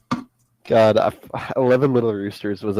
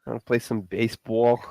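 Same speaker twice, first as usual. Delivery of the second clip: put-on Boston accent; 5 dB quieter than usual. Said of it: "That sounds more like Boston".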